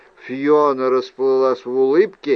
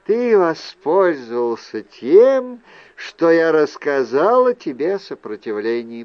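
a hint of Fiona, raised and deliberate; lightly voiced accusing aunt; 2 semitones higher than usual. Aunt confronts nephew over his deception, lightly accusing.

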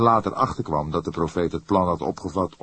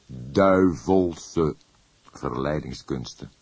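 slow repeat; 2 semitones lower, much slower than usual. Acted. Old inspector repeating the phrase slowly to his colleague. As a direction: savour "Duivelse verleidingskunsten" slowly, weighing it. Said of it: "herhaalde hij traag".

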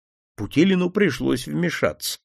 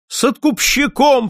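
much higher, sharper outburst; flaring up; 10 semitones higher, 4 dB louder than usual. Acted. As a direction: snap it out hotly. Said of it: "вспыхнула купчиха".

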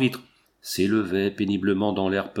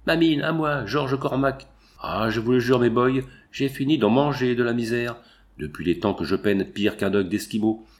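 put-on drunken triumph. Drunk miner boasting triumphantly.

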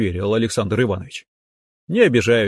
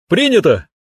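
bright, high and loud acceptance; spring back to life on one word; perking up; 9 semitones higher, 5 dB louder than usual. A narrator's reading. Жених, воспрянув духом, радостно принимает условие громко. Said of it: "воспрял я духом".

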